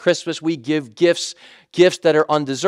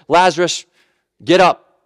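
commanding call; 4 dB louder than usual. Acted. Jesus calling Lazarus from tomb.

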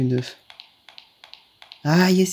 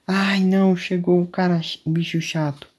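alarmed; 4 semitones higher than usual. Real, not acted. The monster shows up.

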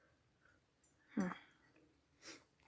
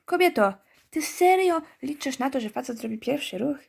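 high, incredulous scolding of the heroine; mock disbelief, pitched up; mock exasperated scolding; 4 semitones higher than usual. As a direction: scold her like she's hopeless. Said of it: "To jest takie".

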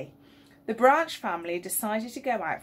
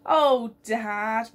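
moaned; 3 semitones higher, 5 dB louder than usual. Acted.

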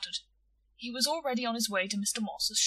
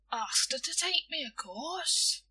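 higher, scornful reply; contemptuous; 7 semitones higher, slower than usual. A narrator's reading. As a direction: answer as if it were obvious. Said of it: "with an air of contempt for William's want of intelligence".

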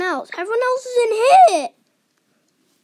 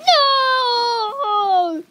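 crying out; 7 semitones higher, 5 dB louder than usual. Retold or imitated. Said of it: "they're like".

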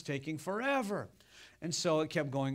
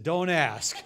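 exasperated; 8 dB louder, slower than usual. Retold or imitated. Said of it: "I said".

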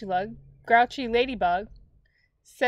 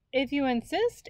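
sweetly; 6 semitones higher than usual. A narrator's reading. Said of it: "answered the friendly ladybug sweetly".

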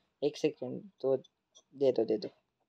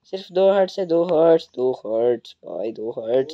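desperate pleading; 8 dB louder than usual. Real, not acted. Begs attacker, only two hearts.

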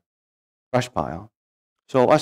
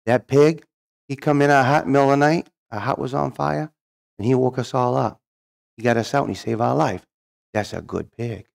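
lightly voiced tribal leader, mostly higher; 3 semitones higher than usual. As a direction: tell it as the admiring tribal leader. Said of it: "the tribal leader goes".

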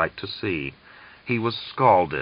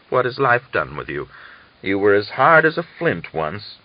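put-on old man musing; 3 semitones higher than usual.

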